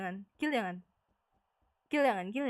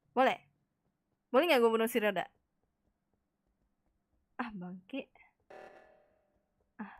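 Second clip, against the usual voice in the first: ordinary talk, nothing marked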